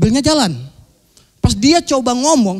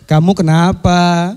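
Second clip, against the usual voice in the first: slow, low and tender; slow, low worried boyfriend voice; gentle concern; 5 semitones lower, much slower than usual. Retold or imitated. Boyfriend gently asks crying girlfriend.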